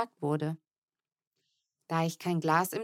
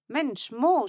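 higher, sharp scolding; 5 semitones higher, 4 dB louder than usual. A narrator's reading. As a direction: tell off the little brother. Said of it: "schimpfte ich".

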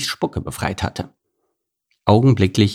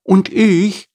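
high eager start; snake cut off; 11 semitones higher than usual. Acted. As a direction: try to chime in. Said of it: "wollte sich Charlotte melden".

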